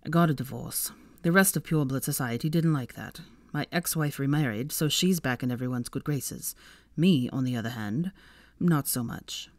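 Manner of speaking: low, a touch rueful; lightly voiced Malfoy, sober.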